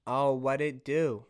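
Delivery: slow, lightly voiced sassy lady; slow it down with a hint of sass; black lady voice. Polar bear walking with sass, sassy lady. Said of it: "healthy black lady voice".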